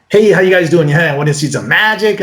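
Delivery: mildly goofy dweeby patter; a touch of nerdy showman; dweeby magician. Acted. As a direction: lightly play an eager, dorky close-up magician. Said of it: "we call it dweeby".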